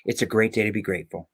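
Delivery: a soft, quick motto; quoted motto. Shown as a demonstration. Guest sharing his favourite motto, soft and quick. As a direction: say it like a favourite saying, softly and fast. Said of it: "the phrase that I love more than anything is".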